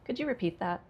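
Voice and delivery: "Could you repeat that" dropping at the end; negative falling tone. Shown as a demonstration. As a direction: question with no rise on "that", subtly sarcastic. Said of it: "they are using a negative tone".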